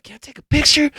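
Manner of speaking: high-pitched eager request; imitated female fan. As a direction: ask it like a thrilled fan, way up high. Imitating fan asking for photo.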